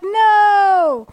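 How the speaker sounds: a sudden high, loud cry of no; mock horrified no. Guest acting out her horror at fake Southern accents, loud high no. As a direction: recoil at the thought, hammed up. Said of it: "I'm like".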